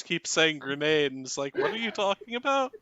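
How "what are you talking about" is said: lightly voiced barkeeper, higher-pitched question; puzzled barkeeper. Barkeeper to whoever keeps saying grenade, mildly baffled. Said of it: "the barkeeper turns to you".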